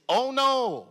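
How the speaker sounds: high, loud squeaky alien cry of alarm; Jar Jar yelp. Retold or imitated. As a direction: yelp it like a clumsy creature taking a fall. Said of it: "and I'm supposed to say".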